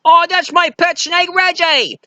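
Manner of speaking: very high, bright mock-casual reply; cheerful pilot. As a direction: play it as no big deal. Acting pilot Jock's reply.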